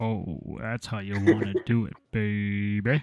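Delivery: put-on sultry, seductive voice, very slow. Trying out a seductive voice after wishing for one: put-on seductive voice. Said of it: "I wish I had a seductive voice".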